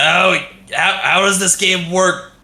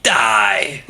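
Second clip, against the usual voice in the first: shouted rhyme; 2 semitones higher than usual. Pretend. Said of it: "what's your first rhyme".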